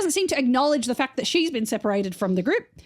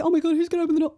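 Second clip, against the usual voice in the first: mock panic; 4 semitones higher, much faster than usual. Acting out phone booth panic.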